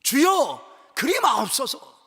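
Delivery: protest. Acted. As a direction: act out Peter's forceful objection. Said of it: "항변하여 이르되".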